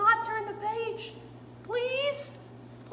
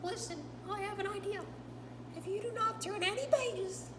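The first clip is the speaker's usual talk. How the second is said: Grover voice; 2 semitones higher, 4 dB louder than usual. Acted. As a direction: play Grover, nervous and pleading with the reader. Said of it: "told by my friend Grover".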